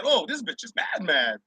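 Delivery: soft muttered aside to himself; quiet aside. Retold or imitated. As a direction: say it under your breath, amused. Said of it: "I just said".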